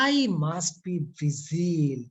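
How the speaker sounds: very slow, leaning hard on "vigil"; stress on vigil. Shown as a demonstration. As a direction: draw out "vigil" so the class notices it. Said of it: "এই ভিজিল ওয়ার্ডটা খেয়াল করো".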